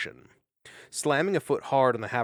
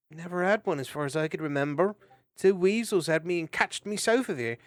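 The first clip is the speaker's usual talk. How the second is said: glum hedgehog voice; 6 semitones higher, 3 dB louder than usual. Acted. Hedgehog tells his story.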